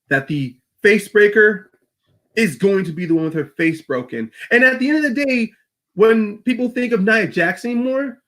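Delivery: put-on Irish-accented wrestling promo, deliberate at the close. Becky vowing to beat the face breaker, Irish accent. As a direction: challenge the rival with an Irish lilt. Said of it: "try with an Irish accent".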